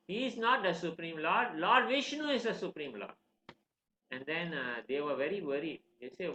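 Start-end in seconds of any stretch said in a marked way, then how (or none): 0.1-3.1 raised, emphatic storyteller's quote; defiant insistence. Retold or imitated. Boy correcting his teachers about the supreme lord, insistent. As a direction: insist with lifted pitch.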